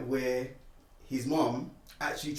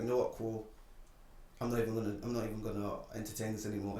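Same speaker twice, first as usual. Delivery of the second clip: resigned dismissal; 3 semitones lower, 8 dB quieter, faster than usual. Retold or imitated. Retold giving up on the argument.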